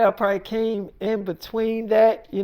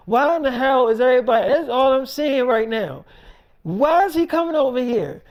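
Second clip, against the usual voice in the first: mildly raised, exasperated complaint; exasperated mother; 3 semitones higher than usual. Retold or imitated. Mother grilling Erica about David coming over, exasperated. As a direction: complain like a fed-up mom.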